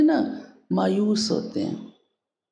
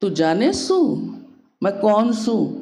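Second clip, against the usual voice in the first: light Haryanvi village dialect; lightly imitating a Haryanvi mother; rough rustic Haryanvi accent; 3 semitones higher than usual. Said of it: "उसकी तरह तो पूरा नहीं बोल सकती हूँ हरियाणवी भाषा".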